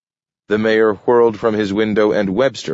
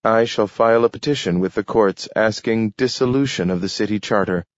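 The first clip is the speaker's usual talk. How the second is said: slightly higher, steady formal declaration; lightly voiced Adams, formal; 5 semitones higher than usual. Adams warns the mayor of his petition, formal. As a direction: lay out the legal threat evenly. Adams states legal intent.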